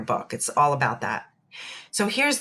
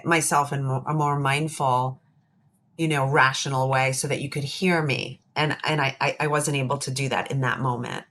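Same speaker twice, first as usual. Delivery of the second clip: gentle apology; 2 semitones lower than usual. Pretend. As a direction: apologize to her mother calmly and kindly. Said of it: "her practice is gonna be approaching her mother".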